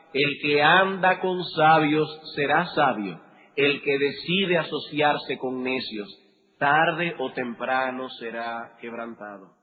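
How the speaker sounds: slow, weighty reread of "El que anda con sabios"; slow, careful restatement of the verse; slow and deliberate. Shown as a demonstration. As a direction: give every word its weight. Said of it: "escuchen con cuidado esas palabras".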